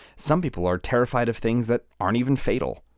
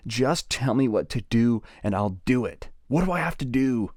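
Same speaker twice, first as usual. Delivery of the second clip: mildly desperate plea; begging; 5 semitones higher than usual. A narrator's reading. Winston begs O'Brien to tell him what to do, begging. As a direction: plead to be told, urgency building to a higher pitch. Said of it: "begs Winston".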